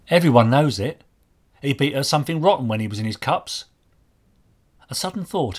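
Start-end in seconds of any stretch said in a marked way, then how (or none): 0.1-3.6 put-on higher-pitched boy answering an inspector; young market boy. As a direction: play the working lad giving his account. Voices the boy Archie in dialogue.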